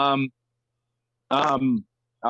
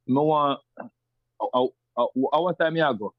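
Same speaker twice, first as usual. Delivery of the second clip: Kingston patois; slower than usual. Shown as a demonstration. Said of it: "I could say something like".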